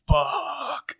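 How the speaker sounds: high, drawn-out mock curse; retold frustration. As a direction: replay the outburst, pitch way up, volume contained. Replays the curse left on track.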